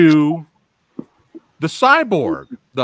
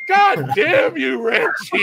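drawn-out, raised mock curse; mock yelling; 4 semitones higher, slower than usual. Yelling at the director over the credits, mock outrage. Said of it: "I'm over here yelling".

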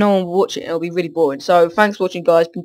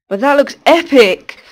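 excited; 7 semitones higher, 9 dB louder than usual. Real, not acted. Building a structure, sees result.

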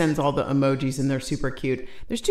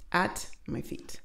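whisper; 10 dB quieter than usual. Real, not acted.

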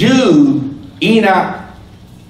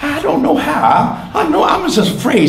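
retold fearful prayer; 11 semitones higher than usual. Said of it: "I said, "Lord".

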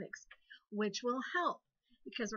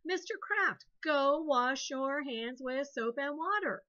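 bossy command; 3 semitones higher, slower than usual. Shown as a demonstration. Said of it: "An imperative is a command".

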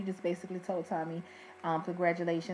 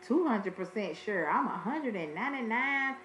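mocking, overconfident talk-show guest, a touch higher; Maury guest; 4 semitones higher than usual. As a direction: ham up a cocky paternity-test guest. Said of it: "What they be saying on Maury?".

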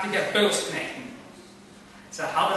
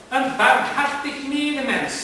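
measured, higher, slow and gentle; slow reassuring claim; 6 semitones higher than usual. Acted. Gentleman assuring the plants he means well, slow and gentle. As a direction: soothe them into trusting you. First calm claim of mercy.

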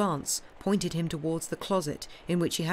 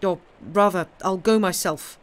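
urgent; 3 semitones higher, 7 dB louder than usual. A narrator's reading. Panicked father calling.

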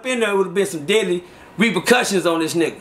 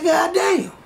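retold astonishment; 9 semitones higher than usual. Narrator stunned by the money.

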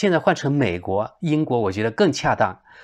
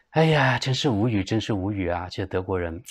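exasperated; 2 semitones lower than usual. Real, not acted. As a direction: let the exasperation trail away into resignation.

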